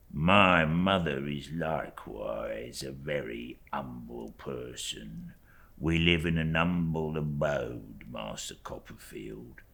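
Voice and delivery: slow, hushed servile voice; a slow, whispered, cringing clerk; fawning humble clerk. Acted. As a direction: lay the humility on thick. Uriah's voice in story reading.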